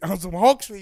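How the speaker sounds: loud, laughing through it; laughing repeat. Real, not acted. Repeating the Hulk joke to listeners, laughing. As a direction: crack up on the repeat. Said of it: "repeated phrase, second take".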